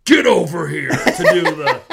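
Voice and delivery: echoing voice inside helmet. Pretend. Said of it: "I had to throw that stupid joke out there".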